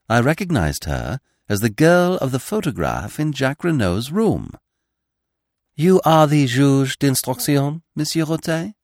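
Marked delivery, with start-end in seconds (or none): 5.8-8.7 high, deliberate, formal question; querying young woman. A narrator's reading. Veiled girl addressing the examining magistrate, composed query. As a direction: ask carefully in a raised voice, lifting at the end. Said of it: "she queried".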